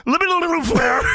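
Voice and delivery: mock garbled wrestler yell; high, hammed-up sputtering rage; Steiner. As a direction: imitate a wrestler bellowing at his boss. Acting out Steiner confronting Flair.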